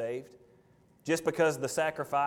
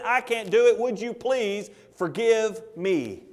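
pleading sinner's cry, mounting higher and louder; desperate penitent plea; 6 semitones higher, 5 dB louder than usual. Acted. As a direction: beg God for mercy, building to a climax. Sinner's prayer voiced, building plea.

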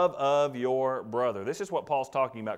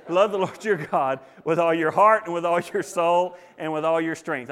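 louder verse recital; 4 dB louder than usual. Shown as a demonstration. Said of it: "How's that?".

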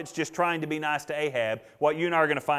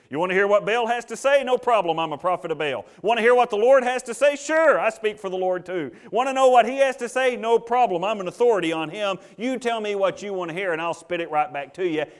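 mock-eager people-pleaser, pitched up; glib false prophet; 5 semitones higher, 4 dB louder than usual. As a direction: loudly offer to say whatever they like. Acting out crowd-pleasing false prophets.

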